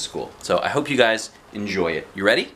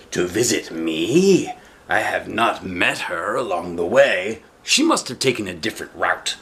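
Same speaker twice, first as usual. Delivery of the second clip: mock surprise. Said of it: "The wolf acted surprised".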